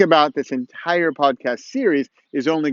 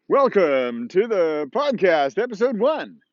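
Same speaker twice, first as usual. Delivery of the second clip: podcast intro voice; 4 semitones higher, slower than usual. Shown as a demonstration. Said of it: "and say".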